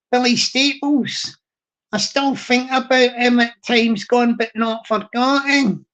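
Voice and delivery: put-on Glasgow read-out; deliberate Scottish accent, Glasgow style; Glaswegian accent. Shown as a demonstration. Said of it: "read that out properly in the Glaswegian".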